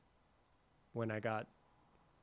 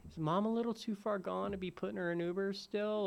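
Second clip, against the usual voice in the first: retold worried question; 9 semitones higher than usual. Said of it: "we were like".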